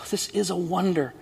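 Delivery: hushed, awed breath of a line; breathed in wonder. A narrator's reading. Narrator awed by the ragman's tears, hushed. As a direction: breathe it out in amazement. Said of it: "I breathed to myself".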